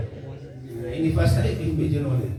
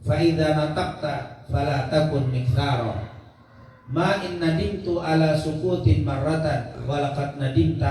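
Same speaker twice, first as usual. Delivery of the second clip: Arabic verse recitation. Acted. Reads an Arabic verse aloud. (membaca syair Arab dengan pelan)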